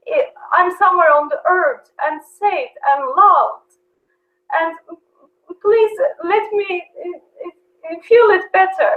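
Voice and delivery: choked up, crying as she prays; real crying. Real, not acted. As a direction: voice breaking into tears. Tearful prayer retold.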